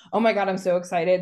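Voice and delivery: quick, lightly hyped-up chatter; fast mock gush from the first woman; mock excited gush. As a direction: imitate an eager video host, a touch excited. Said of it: "and it's like the".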